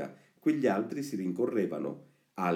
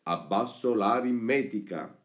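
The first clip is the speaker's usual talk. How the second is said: higher, emphatic down-with cry; mock slogan shout; 4 semitones higher, 4 dB louder than usual. Reading the boys' wall slogan against arithmetic, mock shouting. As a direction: call it out like a rebellious schoolboy's slogan. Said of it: "invece di".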